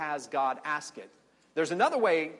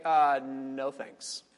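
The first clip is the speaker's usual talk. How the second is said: casual refusal; much slower than usual. Pretend. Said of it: "Abraham could say".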